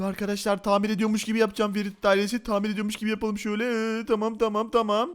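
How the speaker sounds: low, soft conspiratorial aside; secretive aside. Acted. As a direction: confide in the viewers under the voice. Secret aside to viewers about faking.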